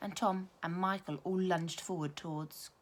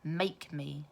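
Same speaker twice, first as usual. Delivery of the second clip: sneer; 2 semitones lower than usual. Acted. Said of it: "sneered Brendan the bully".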